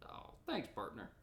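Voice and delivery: a hint of a grizzled gold miner; old prospector voice. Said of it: "and then there's Old Prospector".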